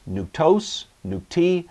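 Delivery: "nuktos, nukti" with each final syllable pitched high, nuk-TOS, nuk-TI; stress on last syllable. Shown as a demonstration. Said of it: "the accent is going to shift to the ultima".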